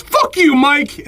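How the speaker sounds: very high-pitched mock yell; hammed-up high holler; retold yelling. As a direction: imitate a yell from afar without full volume. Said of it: "some other guy starts yelling at him".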